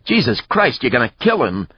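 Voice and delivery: high, loud horrified protest; old man's yell. A narrator's reading. Old man watching a beating, alarmed yell. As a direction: yell in alarm to stop a killing. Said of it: "the old man yelled".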